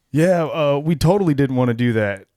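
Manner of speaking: mocking high and loud; sarcastic airhead voice. Mocking Playboy bunnies.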